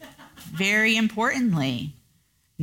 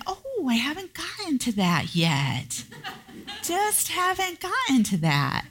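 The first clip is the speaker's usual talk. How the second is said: higher, laughing, softer excuse; sheepish laughing excuse; 11 semitones higher, 3 dB quieter than usual. Retold or imitated. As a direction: laugh off the missed task. Sheepish excuse a week later.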